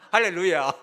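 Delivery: loud, ringing 할렐루야; preacher's hallelujah to the church; shouted hallelujah. Real, not acted. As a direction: cry out in praise. Preacher's exclamation to congregation.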